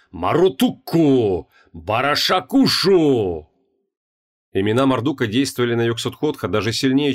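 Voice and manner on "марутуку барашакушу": frantic shout. Acted. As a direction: scream the names out. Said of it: "перешёл на истошный крик".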